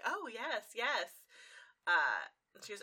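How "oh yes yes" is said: eager agreement. Retold or imitated. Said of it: "she's like".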